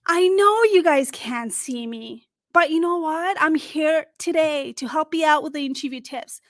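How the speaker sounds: brighter voice with a smile; lively, friendly phone voice; smiling, upbeat tone. Shown as a demonstration. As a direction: sound like you're smiling at them. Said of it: "Now let me change my tone".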